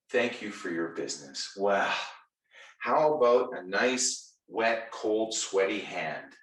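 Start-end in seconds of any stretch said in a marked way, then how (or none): 0.1-1.5 softer, deflated "Thank you for your business."; mock flat clerk. Clerk mumbling to a customer who trusted him, deflated. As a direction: drop it like a dead formality. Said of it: "and you say to me".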